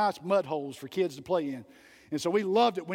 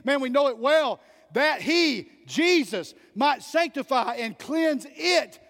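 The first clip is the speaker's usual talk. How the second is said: raised, fervent pulpit delivery; preaching; 2 semitones higher than usual. Acted. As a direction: preach it to the congregation with fire. Preacher at full force.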